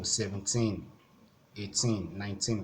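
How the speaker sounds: put-on "seventeen, eighteen, nineteen" with weight on each TEEN; teen stress. Shown as a demonstration. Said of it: "the stress will be on the T E E N part".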